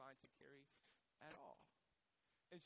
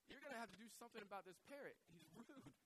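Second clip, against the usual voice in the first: quick, higher-pitched protest; acted complaint; 5 semitones higher, faster than usual. Shopper complaining to the manager, quick acted indignation. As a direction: hurry out an indignant mock complaint.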